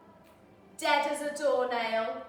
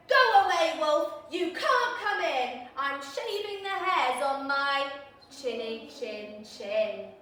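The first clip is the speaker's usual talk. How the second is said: pig yelling back; 5 dB louder than usual. Retold or imitated. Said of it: "he yelled back".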